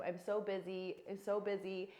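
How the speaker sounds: mock complaint. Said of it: "I hear this all the time".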